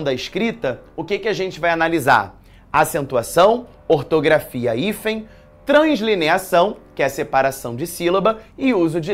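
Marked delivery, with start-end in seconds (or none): none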